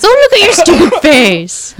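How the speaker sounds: imitated dog-gushing, pitched high; high-pitched Laura voice. Imitating Laura fawning over a dog, high-pitched voice. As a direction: coo it high, mocking a dog lover. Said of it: "doing the high-pitched voice".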